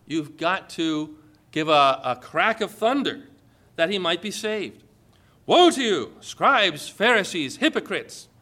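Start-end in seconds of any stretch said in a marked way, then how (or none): 5.5-8.3 loud opening that tapers off; thundering woe. Acted. Jesus condemning the scribes, a loud thundering woe. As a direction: call down woe on them.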